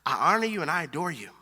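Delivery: hushed, earnest mock prayer; softly imitating a praying woman. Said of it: "that woman who's saying".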